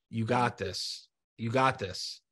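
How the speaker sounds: low, steady encouragement; gentle reassurance. Real, not acted. Host reassuring a struggling guest, gentle and low. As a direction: reassure quietly, letting it settle.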